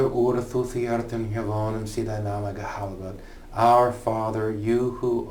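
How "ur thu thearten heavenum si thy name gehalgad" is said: put-on Old English "ur thu thearten heavenum, si thy name gehalgad" read through. Shown as a demonstration.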